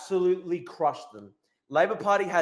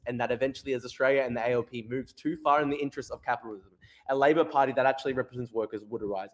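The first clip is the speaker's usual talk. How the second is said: quick, lower read-out voice; reading aloud; 5 semitones lower than usual. Acted. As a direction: read a written post straight through. Reads out a written post.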